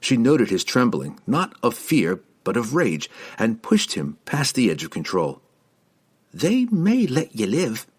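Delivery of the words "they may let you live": snidely. A narrator's reading.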